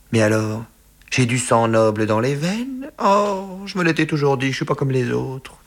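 high, rising amazed exclamation; elated wonder. A narrator's reading. Son discovering he has noble blood, high elated wonder. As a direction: marvel at it, voice climbing high.

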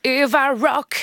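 put-on slow, drawn-out Marseille accent jingle; mock Marseille-accented intro. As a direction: sing it out like a southern French radio jingle. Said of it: "j'ai essayé de vous imiter ... Avec l'accent de Marseille".

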